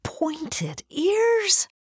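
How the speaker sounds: high, loud startled question. A narrator's reading. Girl alarmed about her ears, high startled squeak.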